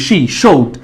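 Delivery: "she, showed" with a clear sh; sh sound. Shown as a demonstration. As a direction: say "she, showed" separately, each starting with sh. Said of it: "শ এর মতো করে উচ্চারণ".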